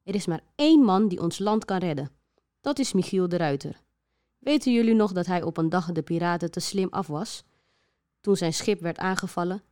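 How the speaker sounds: luid en plechtig verklaren; plechtige regeringsverklaring. Acted. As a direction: spreek als een regering die het land redt. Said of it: "De regering in Den Haag zei". (regering in Den Haag spreekt plechtig en luid)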